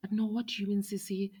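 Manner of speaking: high, loud defensive protest. Retold or imitated. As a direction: protest her innocence, voice up high. Retold phone quarrel, sister defending.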